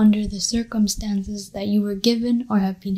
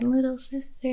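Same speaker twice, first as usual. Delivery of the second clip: little sister voice; 4 semitones higher, 4 dB quieter than usual. Shown as a demonstration. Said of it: "they can do the".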